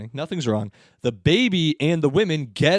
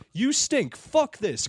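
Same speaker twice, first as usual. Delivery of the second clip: mock angry yell; 8 semitones higher, much slower than usual. Man sitting next to her, mock angry yelling. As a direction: imitate a fed-up insult, high. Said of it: "They keep yelling at each other".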